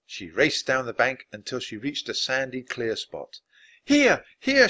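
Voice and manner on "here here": loud, very high call; high, carrying summons. A narrator's reading. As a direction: call them over urgently. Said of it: "she called".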